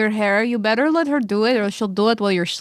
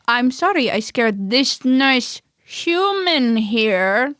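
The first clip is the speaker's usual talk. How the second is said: fake apology; slower than usual. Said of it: "she's gonna go".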